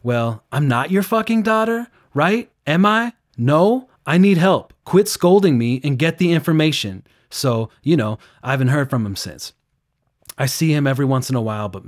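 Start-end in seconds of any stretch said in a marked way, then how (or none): 0.0-7.1 high, loud furious comeback; angry retort. Retold or imitated. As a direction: snap back at him, much higher and louder. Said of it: "She's like".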